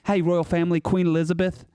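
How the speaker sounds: hammed-up amateur British accent; committed British accent. Shown as a demonstration. Panelist bashing the royal family on a dare, committed British accent. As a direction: rant in a rough mock British accent. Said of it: "commitment to the British accent".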